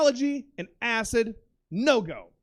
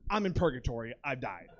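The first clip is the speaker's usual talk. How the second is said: low, soft, resigned realization; hushed dread; 9 semitones lower, 6 dB quieter than usual. Retold or imitated. Man tripping in dingy hotel room, hushed dread. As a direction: drop low and quiet, accepting doom. Believes he has died on acid.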